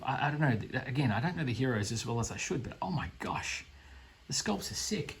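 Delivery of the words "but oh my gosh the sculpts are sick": breathy hushed awe; hushed wow at the detail; awed whisper. Real, not acted. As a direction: whisper it in amazement. Awed by the sculpts.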